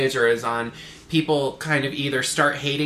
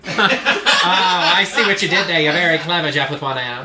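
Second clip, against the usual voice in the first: Katharine Hepburn; 3 dB louder than usual. Acted. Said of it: "the Katharine Hepburn thing".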